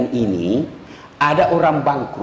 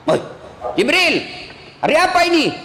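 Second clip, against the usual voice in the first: dead man waking; 10 semitones higher, faster than usual. Acted. Dead man wakes, asks Jibril.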